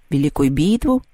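«битву» lifted at the end as a question; questioning echo. A narrator's reading. Storeroom spirit asking back, «битву» rising in question. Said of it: "переспросил кладовой".

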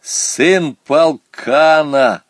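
loud, slow proud announcement; announcing. A narrator's reading. Boy presents the goat's son to class, announcing. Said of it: "объявил Саня".

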